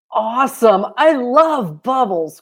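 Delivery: high, loud squeal of delight. A narrator's reading. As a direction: squeal like a thrilled little girl. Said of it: "Clara squealed".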